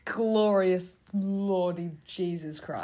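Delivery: slow, loud exclamation of shock; drawn out, as if it can't be real; real shocked outburst, slow and loud; stunned disbelief. Real, not acted. Stunned by the script.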